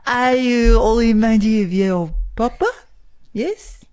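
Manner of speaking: mock Eastern European accent. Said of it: "maybe Eastern European".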